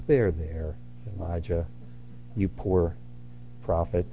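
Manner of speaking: soft, hushed there-there, a bit patronising; mock soothing. God mock-comforting a sulking Elijah, soft and patronising. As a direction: pat him on the head with the words. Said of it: "He doesn't do that with him".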